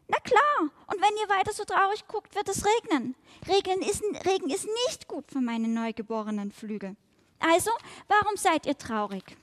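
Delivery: high, quick and eager little fly voice; a newborn fly chattering up at two strangers; chirpy young fly. Acted. Young fly to fox and boar, high eager chatter.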